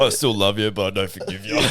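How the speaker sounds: mock tearful parent through a laugh; mock tearjerker. Mate mocking the dad's speech, laughing. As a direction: ham up a sappy parent line while laughing. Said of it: "The old tearjerker".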